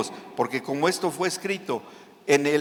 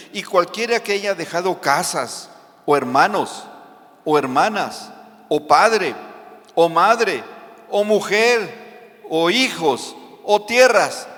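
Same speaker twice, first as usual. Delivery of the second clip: building list; 6 dB louder than usual. Acted. Building list of what was left.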